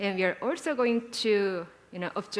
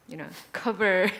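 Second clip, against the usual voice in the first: laughing; 3 dB louder than usual. Real, not acted. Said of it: "Why are you laughing?".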